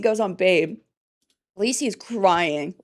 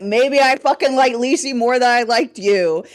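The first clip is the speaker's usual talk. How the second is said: retold defiant snap; 3 semitones higher, 6 dB louder than usual. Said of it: "So I was like".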